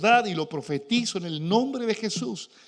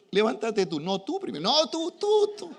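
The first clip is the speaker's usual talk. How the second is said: mock bickering; 3 semitones higher than usual. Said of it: "me pasa con Cindy".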